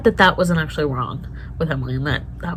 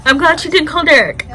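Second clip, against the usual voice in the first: excited relief; 9 semitones higher, 8 dB louder than usual. Real, not acted. Relieved reaction.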